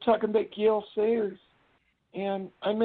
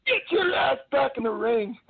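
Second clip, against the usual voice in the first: imitated wrestler's yell, pitched up; mock yell, higher than usual; Road Warrior Animal; 4 semitones higher than usual. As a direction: order someone back like an irate wrestler. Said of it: "like he yells. He goes".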